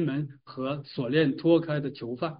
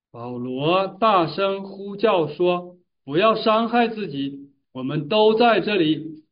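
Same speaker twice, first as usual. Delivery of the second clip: solemn, projected Bible reading; scripture reading aloud; 3 semitones higher, 4 dB louder, slower than usual. A narrator's reading. Preacher reads Paul's cry to the congregation, emphatic scripture reading. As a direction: read it out slowly, raised and emphatic.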